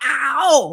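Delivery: pained ow. Retold or imitated. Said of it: "And I went".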